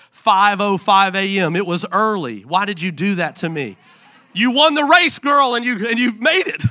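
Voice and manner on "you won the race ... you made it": higher and louder, delighted; father cheering his daughter's birth; joyful cheer. Real, not acted. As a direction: celebrate her like a victory.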